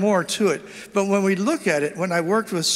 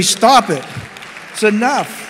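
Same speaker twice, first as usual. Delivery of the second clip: much louder, forceful "Stop it"; louder insistent "Stop it. It's enough."; 3 semitones higher, 5 dB louder, slower than usual. Shown as a demonstration. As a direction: shout "Stop it" at the whole crowd. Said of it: "you gotta say".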